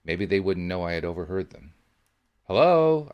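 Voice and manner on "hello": loud, high call across the shop; loud high hello to an empty room. A narrator's reading. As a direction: call out to announce yourself. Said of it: "I called out".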